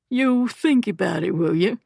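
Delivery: scorn his offer; sneering. Acted. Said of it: "sneered the first voice".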